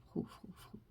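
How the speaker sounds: soft breathy whisper close to the mic; ASMR whisper. Pretend. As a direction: whisper right in the listener's ear. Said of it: "Une petite séance A S M R".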